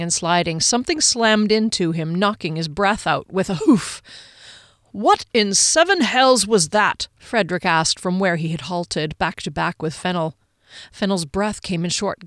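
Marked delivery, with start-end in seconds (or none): 4.9-7.1 slow, dazed, stress on seven; stunned question. A narrator's reading. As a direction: punch "seven", shaken and slow. Dazed after a fall.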